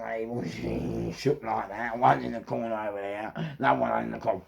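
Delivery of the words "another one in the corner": usual speaking voice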